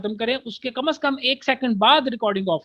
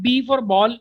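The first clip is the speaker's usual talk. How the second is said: spelling code demo; slower than usual. Shown as a demonstration. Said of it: "तो वहां पर आप".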